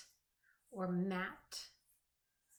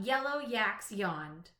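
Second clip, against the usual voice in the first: "Yellow yaks yawned" said slowly, each opening Y sound stressed; slow alliterative read. Shown as a demonstration. Teacher to young pupils, slow with each opening Y stressed. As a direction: lean on the Y that starts every word. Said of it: "all the words in the sentence have the same beginning sound".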